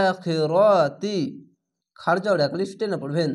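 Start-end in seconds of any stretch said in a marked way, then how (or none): 0.1-1.2 slow, drawn-out chanted word; Quran recitation. Shown as a demonstration. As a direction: stretch each syllable like tajweed. (টেনে টেনে তিলাওয়াত)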